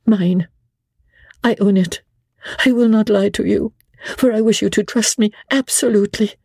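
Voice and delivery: a wife pressing for help; Lady Blakeney's voice. A narrator's reading.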